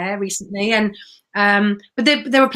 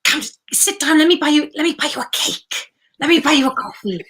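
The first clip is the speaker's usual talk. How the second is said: put-on kind old friend inviting; 5 semitones higher than usual. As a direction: coax her to stay for cake and coffee. Phil inviting her to sit.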